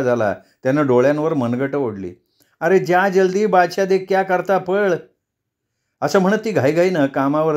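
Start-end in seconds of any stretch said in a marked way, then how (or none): 2.6-4.9 urgent mother. Acted. Mother hurrying son off.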